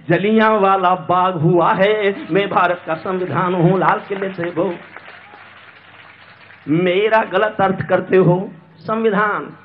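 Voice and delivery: measured, rhythmic verse delivery; declaimed verse in a steady cadence; poem recitation. Acted. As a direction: recite it as stage poetry.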